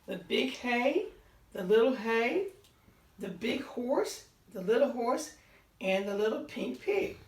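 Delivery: gentle storybook read-aloud; reading to children. A narrator's reading. Teacher reading a farm story to children, gentle read-aloud. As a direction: read it like a bedtime picture book. Reads picture book aloud.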